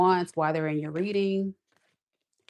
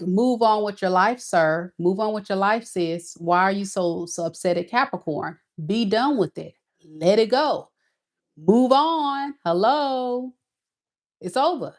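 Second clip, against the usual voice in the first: exasperated telling-off; 2 semitones higher than usual. Retold or imitated. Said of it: "And it's like".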